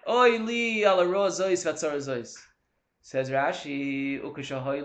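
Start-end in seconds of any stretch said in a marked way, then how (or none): 0.1-2.4 1 drawn-out lament. Retold or imitated. Voicing lament, slowed.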